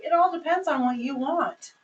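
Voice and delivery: "It all depends on what you want" said bright and friendly, lifted on "all"; positive and upbeat. Shown as a demonstration. Host reframing the answer for a guest, upbeat and friendly. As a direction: brighten it, lean into "all" warmly. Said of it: "in a positive, positive way".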